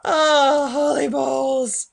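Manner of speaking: loud, slow, drawn-out exclamation; shaken after scare. Real, not acted. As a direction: exclaim loudly, recovering from a fright. Reacts after a big scare.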